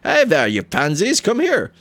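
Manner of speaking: mock the pansies like a drunk frat boy; swaggering frat boy taunting the stable hands; medieval frat boy. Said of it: "he is like a medieval frat boy".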